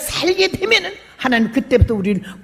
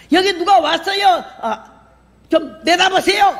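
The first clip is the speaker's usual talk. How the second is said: high calling out; 9 semitones higher than usual. Retold or imitated. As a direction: call him from across the house, pitched high. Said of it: "왜 이렇게 소리를 질러?". (남편을 부르며 높고 크게 외침)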